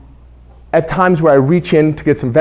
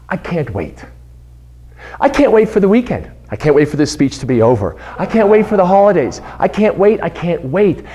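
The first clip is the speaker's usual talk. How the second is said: whiny I can't wait; 2 semitones higher than usual. Retold or imitated. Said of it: "is the phrase".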